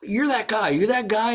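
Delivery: high-pitched imitation of a tipsy fan; lightly voiced drunk stranger; half-drunk fan. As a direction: play a half-drunk guy recognizing someone. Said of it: "he's, like, half drunk".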